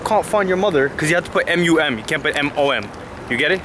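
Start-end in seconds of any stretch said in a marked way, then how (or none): 0.0-0.9 lightly voiced British Siri reply, a touch higher; half-hearted British robot voice. Friend mimics Siri failing to call mom, mild British accent. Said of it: "they say".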